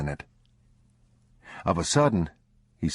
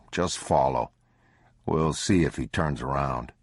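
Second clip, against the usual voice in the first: father warns son, low and wary; 3 semitones lower than usual. Acted. Father voice again.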